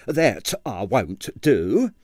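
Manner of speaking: slow, firm landlady refusal. Acted. Landlady refusing Quill's visitor, slow and firm. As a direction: refuse flatly, word by word. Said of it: "said Miss Treacle firmly".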